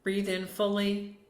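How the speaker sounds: unhurried meditation guide with long pauses; short calming cues, each left to settle; guided meditation. Acted. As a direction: ease listeners into stillness, phrase by phrase.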